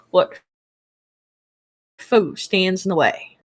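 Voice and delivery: reading the setting aloud; steady, measured rulebook read; game master narration. Acted.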